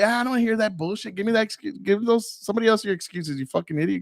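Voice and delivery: joking scolding. Retold or imitated. Teacher cutting off a student's excuses, mock rough and joking. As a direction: playfully reject his excuses. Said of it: "in a joking manner".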